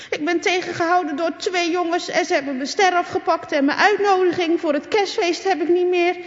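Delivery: high, tearful telling; crying girl. A narrator's reading. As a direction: sob out what happened.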